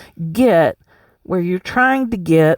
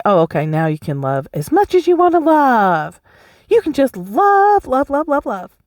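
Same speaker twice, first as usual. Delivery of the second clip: mock permission giver; 5 semitones higher than usual. Imagined voice granting permission.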